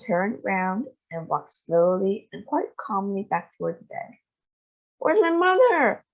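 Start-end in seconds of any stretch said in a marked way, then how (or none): 5.0-6.0 high, loud anguished cry; distraught bawl. A narrator's reading. Mother bawling for her vanished mother. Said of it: "bawled Missus Bucket".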